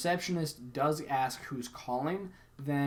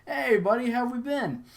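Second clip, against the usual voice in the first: high, loud buddy greeting; hearty fake recognition; 10 semitones higher, 6 dB louder than usual. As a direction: greet him like a long-lost pal, instantly. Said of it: "without skipping a beat".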